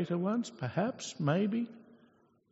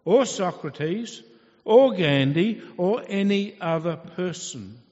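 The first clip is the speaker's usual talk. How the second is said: commanding God; 2 semitones higher, 7 dB louder than usual. Acted. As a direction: proclaim each name as a rebuke. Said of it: "God is saying to Peter".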